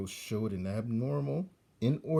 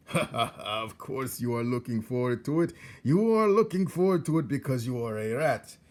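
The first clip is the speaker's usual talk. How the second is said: louder, higher mocking laugh into words; laughing old rat; 4 semitones higher, 6 dB louder than usual. Old rat laughs at young rat's cruelty, mocking. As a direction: laugh him into his nature. Botticelli's voice.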